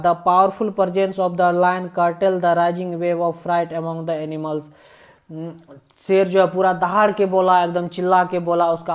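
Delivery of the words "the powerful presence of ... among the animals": slow, deliberate read-aloud of the English text; slow story reading. A narrator's reading. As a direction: read each phrase slowly, as if to a class.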